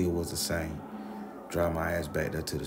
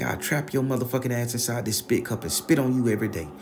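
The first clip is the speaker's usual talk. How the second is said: grandma threat; 5 semitones higher, 3 dB louder, faster than usual. Retold or imitated.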